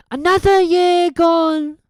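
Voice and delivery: put-on slow, benevolent old man; Dumbledore's voice. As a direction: Dumbledore addresses the school at the feast. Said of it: "Dumbledore said".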